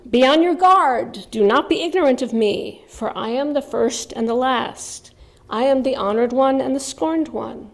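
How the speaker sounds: measured, dramatic recitation of an ancient poem; solemn scripture reading. Acted. Speaker reads ancient poem aloud to viewers, solemn dramatic recitation. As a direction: intone each paradox like sacred verse.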